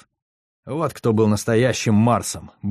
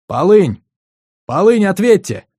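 calling out; 8 semitones higher, 6 dB louder than usual. Acted. Hailing the corvette over comms.

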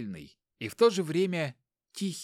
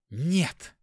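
hard no; 3 semitones higher than usual. Acted. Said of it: "жёстко ответила".

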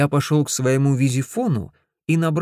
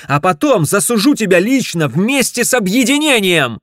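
loud, higher raging tirade; furious threats; 5 semitones higher, 8 dB louder than usual. Acted. Ted threatens to sue Griff, loud and raging. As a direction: threaten him at full volume.

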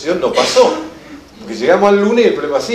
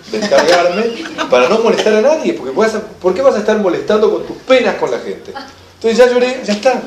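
cheeky; 3 semitones higher than usual. Retold or imitated. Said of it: "con el tupé de un siete".

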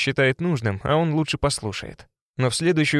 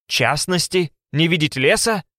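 incredulous echo; 4 semitones higher, slower than usual. A narrator's reading. Alexei echoes her, incredulous.

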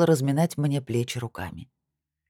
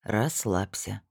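slow, soft, low "Расслабься"; calm him down, slowly and softly; soothing advice; 5 semitones lower, 5 dB quieter, much slower than usual. A narrator's reading. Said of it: "посоветовал он". (медленно, тихо и спокойно)

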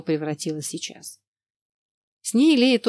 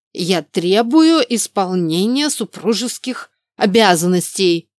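demanding; 6 dB louder, slower than usual. Acted. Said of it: "заявил он с порога".

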